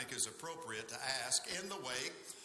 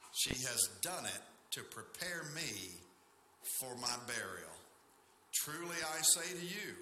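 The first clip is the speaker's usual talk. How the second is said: measured, solemn public Bible reading; scripture reading. Acted. Pastor reading the Gospel to a standing congregation, measured scripture reading. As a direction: read it out deliberately with pauses between phrases.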